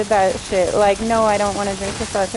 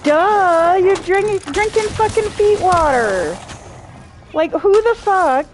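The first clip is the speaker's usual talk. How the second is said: much higher and louder, grossed-out ranting; disgusted outburst; 8 semitones higher, 4 dB louder than usual. Real, not acted. Streamer ranting to chat about fans drinking bathwater, disgusted loud outburst. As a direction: blurt it out like you can't believe anyone would.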